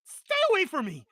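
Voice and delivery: high-pitched exasperated character voice; character audition take. Acted. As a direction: protest in a high, put-on voice. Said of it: "I love your take, 'cause all I was gonna be like".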